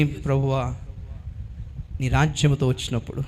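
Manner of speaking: low, soft, pleading prayer; humble plea. Acted. Dying thief asks Jesus to remember him, hushed and pleading. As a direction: beg the Lord softly, head bowed.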